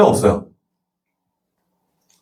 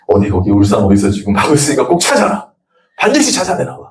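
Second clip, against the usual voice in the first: deathbed shout; 4 semitones lower than usual. Acted. Dying father orders children, shouting.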